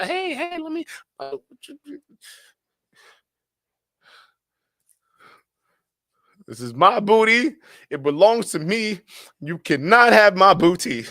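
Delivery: high-pitched indignant cartoon voice, building to a shout; Tom DeBoer. Streamer quoting a Boondocks character, hammed-up high protest. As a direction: squeal it, then protest loudly. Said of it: "Tom DeBoer from the Boondocks".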